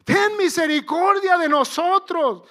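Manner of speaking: high, very loud cry for mercy; shouted plea. Acted. Lepers begging Jesus for mercy from afar, shouting. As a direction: shout it out to Jesus, stretching the name. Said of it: "Ellos gritaron".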